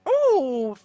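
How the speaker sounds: mock scream. Player voicing thrown Mario's pain, mock scream. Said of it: "he screams".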